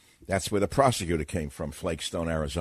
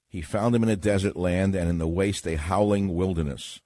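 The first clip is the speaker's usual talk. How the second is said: scripture reading. Acted. Reads Deuteronomy aloud.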